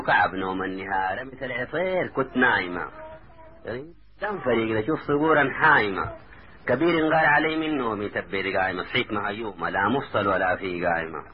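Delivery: measured dialect poem recital; verse recitation. A narrator's reading. Taha reassures his cousin in verse, recited. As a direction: recite the boast in rhythmic lines.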